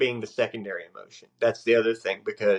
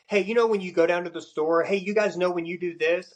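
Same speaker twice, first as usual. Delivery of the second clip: detached generalizing; 8 semitones higher than usual. Shown as a demonstration. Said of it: "I'm separating myself from all of this".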